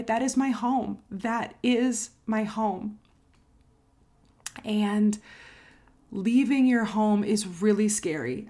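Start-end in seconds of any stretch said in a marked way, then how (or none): 1.1-3.0 slow, weighty, every word leaned on; drawn-out, heartfelt repeat; slow emphatic repeat. Real, not acted. 4.7-8.5 emotional, near tears. Real, not acted. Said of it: "it might make me cry now".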